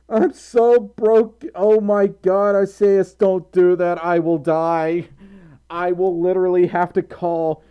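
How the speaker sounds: can barely speak for laughing; laughing hard. Real, not acted. Laughing fit at partner's joke.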